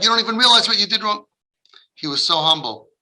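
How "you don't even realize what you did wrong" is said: indignant scolding. Acted. Acted scolding reaction.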